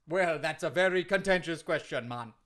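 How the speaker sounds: lilting put-on Jamaican wrestler; hammed-up Jamaican accent; Kofi Kingston, Jamaican accent. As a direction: protest in a mock Jamaican accent. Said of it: "you sound like you're from someplace else".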